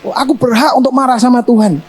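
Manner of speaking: stubborn acted anger, voiced high; Jonah defiant. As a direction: insist you have every right to be angry. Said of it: "Lalu Yunus ngomong sama dia".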